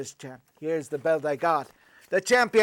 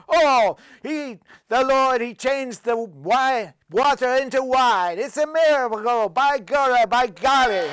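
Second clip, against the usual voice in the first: priest's excuse pitched higher; Irish priest; 5 semitones higher than usual. Acted. Priest fibbing to the cop about the wine, pitched higher. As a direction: play the priest talking his way out of it.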